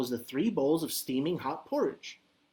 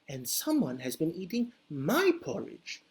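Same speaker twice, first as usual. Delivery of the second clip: medium-sized Mama Bear voice; 3 dB quieter than usual. Acted. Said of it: "in her medium-sized voice".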